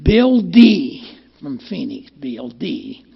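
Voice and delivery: put-on slow, drawn-out old-timer voice; a mild imitation of an old AA friend; imitating Bill D. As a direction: lightly put on the old man's slow way of talking. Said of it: "he used to talk like this".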